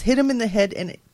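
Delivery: giggling while reading the grim end; laughing through it. Real, not acted. Reading grim news, breaks into laughter.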